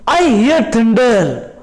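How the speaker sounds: slow, stretched-out recital; dramatised slow report to a mother; snail telling mother. Acted. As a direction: announce the thunder, drawing out every word. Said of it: "He is explaining to".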